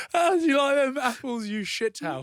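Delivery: laughing, high-pitched Scottish taunt; hammed-up Scottish jeer through laughter; mock Scottish accent.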